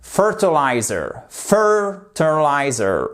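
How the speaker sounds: "Fertilizer", slow, the weight on "FER"; stress on first syllable. Shown as a demonstration. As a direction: hit "FER" in "Fertilizer" and let the rest fall. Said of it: "accent tonique sur la première syllabe". (accent tonique sur "FER" de "Fertilizer")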